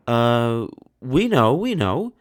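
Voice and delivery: high, loud panicked stammer; flustered cry. A narrator's reading. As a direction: scramble for an answer. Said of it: "cried those two sisters".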